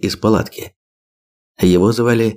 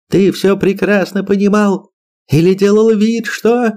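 accusing; 12 semitones higher than usual. A narrator's reading. Furious wife accusing her husband.

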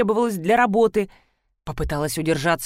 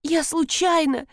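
sobbing; 8 semitones higher, slower than usual. A narrator's reading. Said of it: "всхлипнула Света".

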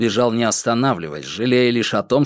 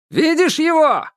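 high shouted question across the swamp; shouting. Acted. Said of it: "крикнул охранник слева".

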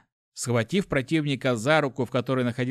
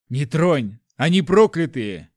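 loud, urgent exclamation; forceful warning shout, pitched up at the end; alarmed warning; 2 semitones higher, 7 dB louder than usual. A narrator's reading. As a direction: cry out that danger is near. Guard urgently warns his comrade.

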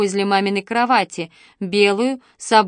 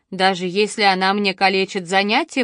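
ordinary delivery

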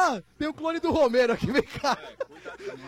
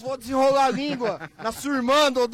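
shouting. Real, not acted. Joking threat shouted at a friend.

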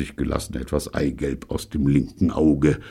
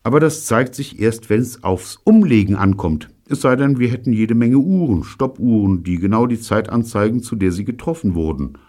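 Gordon's voice; 7 semitones higher, 5 dB louder than usual. Acted. Gordon argues with Steve.

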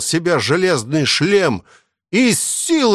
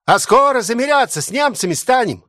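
crowd shout; 9 semitones higher than usual. A narrator's reading. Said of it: "Из толпы начали кричать".

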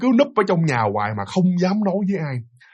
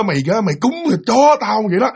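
higher, insulting scold; rude ghost cursing; 5 semitones higher than usual. Retold or imitated. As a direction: curse him as an equal. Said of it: "Chửi luôn".

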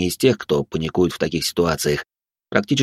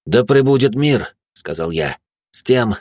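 solemn blessing; 2 semitones higher than usual. Acted. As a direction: pronounce the blessing gravely. Solemn blessing after battle.

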